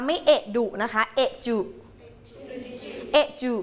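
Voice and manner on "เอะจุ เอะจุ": เอะจุ without the d sound; ออกเสียง เอะจุ ไม่มีเสียงดี; pron correction. Shown as a demonstration. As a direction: say เอะจุ, drop the d completely. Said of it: "ไม่ออกเสียงตัวดีนะคะ".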